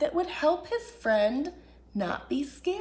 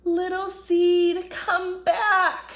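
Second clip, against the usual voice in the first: calling out loud for a lost friend; a worried, carrying call; crying out; 6 dB louder, slower than usual. Acted. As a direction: fox calling after his friend being taken away. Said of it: "cried little fox".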